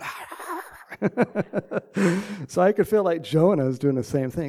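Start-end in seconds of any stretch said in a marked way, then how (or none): 0.0-0.6 breathy, high letdown sigh; disappointed groan. Retold or imitated. Cowboys fan hearing rival score, deflated sigh. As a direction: let the air out like your team lost. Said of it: "And I'd be going".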